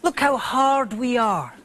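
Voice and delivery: slow, proud tough-guy voice; mock macho brag; tough British boast. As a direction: puff up like a hard man.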